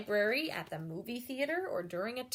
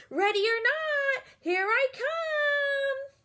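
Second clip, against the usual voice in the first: high, loud and very slow call; yelling; 7 dB louder, slower than usual. Acted. Isabella calls out while playing hide and seek outside, loud. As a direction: call it out across the playground. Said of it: "she's yelling again".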